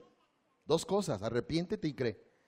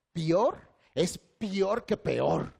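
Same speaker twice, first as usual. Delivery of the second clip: slow, insistent, drawn-out correction; a hint of a stubborn grandma, slowly; grandma's correction; 3 semitones higher, 4 dB louder, much slower than usual. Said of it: "Dice mi abuelita". (la abuelita corrigiendo, lenta y terca)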